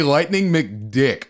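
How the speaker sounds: "Lightning McDick" drawn out slowly like a title; slow title announcement. Shown as a demonstration. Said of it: "Adam and Andy".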